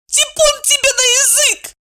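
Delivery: high shrieking squeal. A narrator's reading. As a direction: squeal it out in alarm. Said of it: "взвизгнула Евдокия". (пронзительный высокий взвизг)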